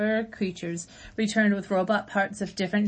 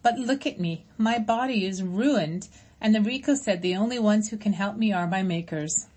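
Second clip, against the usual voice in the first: gentle robot voice; 2 semitones higher than usual. Acted. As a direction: speak as a caring robot to old friends. Roz answers the crowd.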